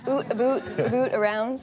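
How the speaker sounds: Canadian oot for out; rounded Canadian "aboot"; Canadian accent. Shown as a demonstration. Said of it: "You said oot".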